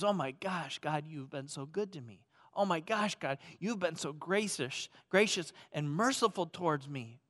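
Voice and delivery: soft, grateful prayer voice; humble prayer. Acted. Humble believer thanking God, soft and tender. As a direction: hush into thankful wonder.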